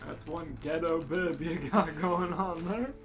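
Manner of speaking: ordinary talk, nothing marked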